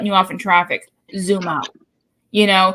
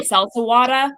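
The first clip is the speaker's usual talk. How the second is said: "seltzer water" in a Boston accent. Shown as a demonstration. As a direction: drop the R's in "seltzer water", Boston style. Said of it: "I get made fun of".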